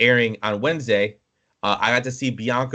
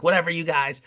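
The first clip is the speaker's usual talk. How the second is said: lightly imitated squeaker, raised pitch; high-pitched kid yelling; 6 semitones higher than usual. Little kid mouthing off at older players, mock huffy. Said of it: "like, yelling at me and my friends".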